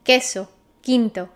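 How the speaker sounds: 'Queso, quinto' repeated, U silent both times. Shown as a demonstration. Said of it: "See how we don't pronounce the U?".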